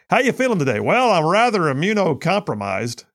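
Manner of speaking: lightly voiced snob; mock prissy exchange. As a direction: parody a pompous answer. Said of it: "Nobody talks like that".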